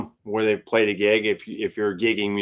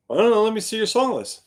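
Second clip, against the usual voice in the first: much higher, easygoing voice; casual stand-in drummer; 10 semitones higher, faster than usual. Retold or imitated. Billy asked to sit in, casual and much higher. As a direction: shrug it off then ask. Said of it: "he says".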